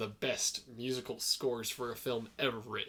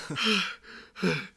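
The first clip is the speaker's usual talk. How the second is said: acted gasp; 6 semitones higher, 3 dB louder than usual. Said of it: "he's like".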